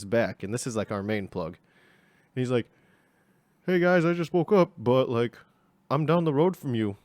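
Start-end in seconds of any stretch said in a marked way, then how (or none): 3.6-7.0 high voiced buddy. Plug voiced, high and loud.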